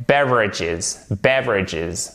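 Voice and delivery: "beverages" stressed on BEV, falling away; "beverages" as BEV-ridges, stress up front; first-syllable stress. Shown as a demonstration. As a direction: hit the BEV of "beverages", squeeze the rest. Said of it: "Vous mettez bien l'accent tonique ici".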